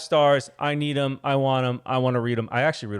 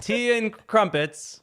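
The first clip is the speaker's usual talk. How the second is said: put-on English accent; 9 semitones higher, much slower than usual. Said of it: "Let me hear it".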